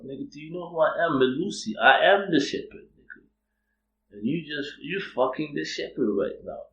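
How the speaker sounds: incredulous retort, rising in pitch; acted indignation. Acted indignant retort to verse reader.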